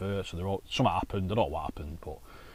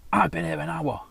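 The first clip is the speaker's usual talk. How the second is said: high, mock-indignant complaint; angry passenger; 8 semitones higher, 5 dB louder than usual. Bus driver mimicking a late-night passenger, mock whine. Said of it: "stamping about this guy".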